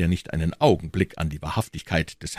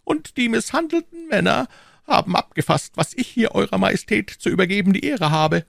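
high, louder cardinal. A narrator's reading. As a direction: say it out loud for the room. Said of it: "ganz laut".

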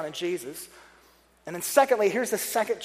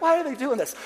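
higher-pitched mock exasperation; mock dismay; 5 semitones higher than usual. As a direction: complain in baffled, put-on dismay. Acted reaction to hateful email.

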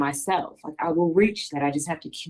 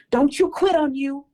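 higher, louder mock coaching yell; trainer's yell; 8 semitones higher, 4 dB louder than usual. Trainer yelling at her during workouts, mock yell. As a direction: bark it like a tough trainer pushing you. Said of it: "he would always yell".

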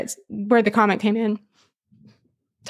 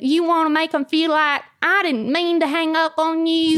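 put-on Southern accent; 6 semitones higher than usual. Host acting out a phone goodbye, mock Southern. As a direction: lay on a pitched-up Southern twang. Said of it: "we go into Southern".

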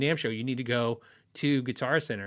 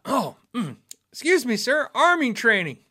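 strained voice breaking; voice giving out; 9 semitones higher, 5 dB louder than usual. Real, not acted. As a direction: voice cracking and straining up high. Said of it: "I'm losing my voice".

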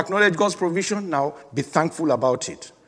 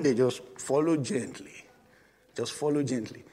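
gentle and soft; 3 semitones lower, 6 dB quieter than usual. Acted. Sheep following the shepherd.

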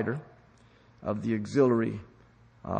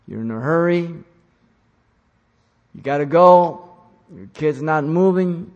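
hurried parent; 6 semitones higher, 10 dB louder than usual. Acted. Parent in a hurry scenario.

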